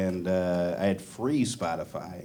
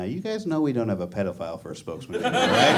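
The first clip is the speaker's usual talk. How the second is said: fast aside; 2 semitones lower, faster than usual. Retold or imitated. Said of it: "Subway's way of saying".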